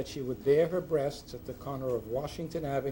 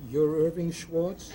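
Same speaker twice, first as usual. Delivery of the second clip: astonished; 4 semitones higher, 5 dB louder, slower than usual. Retold or imitated. Judge stunned by the disguise.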